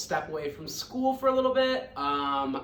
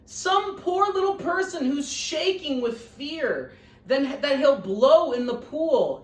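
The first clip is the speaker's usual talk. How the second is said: Horton; 7 semitones higher, 4 dB louder than usual. Acted. Horton resolves to save.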